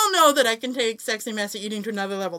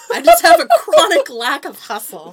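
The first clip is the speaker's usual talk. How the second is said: exaggerated drawn-out; 8 semitones higher, 11 dB louder than usual. Exaggerated self-mocking line.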